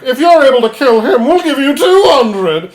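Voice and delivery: high, loud, laughing through the offer; giggling recruiters raise the bounty; laughing mock offer. Mercenaries bidding for Guts, high and laughing.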